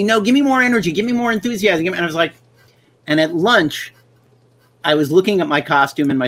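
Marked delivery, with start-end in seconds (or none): 0.0-1.9 director's notes, pitched up high; pushy director. Retold or imitated. Director coaching the actor on a music video set, pushy and high. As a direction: press the actor for more energy. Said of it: "he kept saying to me".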